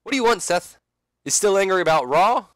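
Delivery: Sting. Acted. Sting taunting Seth in the ring, loud and cocky. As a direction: needle him with a cocky question. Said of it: "and he says".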